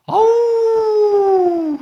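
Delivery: long, high, loud "awww"; sustained high-pitched teasing cry; taunting howl. Acted. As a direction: jeer with a drawn-out mock wail. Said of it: "막 약 올리는 거예요".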